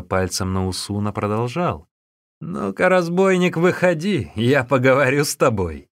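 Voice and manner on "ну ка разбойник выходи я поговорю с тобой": louder, higher jeering call-out; big fellow mocking the monk into a fight; mocking challenge. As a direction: sneer and call him out. Laughing bully calls monk out.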